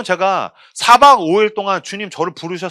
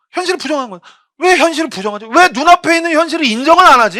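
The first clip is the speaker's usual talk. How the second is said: higher, louder indignant preaching; rising preaching; 10 semitones higher, 8 dB louder than usual. Acted. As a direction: build it up at the congregation. Preaching rise. (점점 높아지는 열띤 설교)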